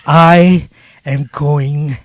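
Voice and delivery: loud, drawn-out words with pauses; mock promo delivery. Shown as a demonstration. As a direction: stretch it out and swing up on the last word. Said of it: "to talk like this".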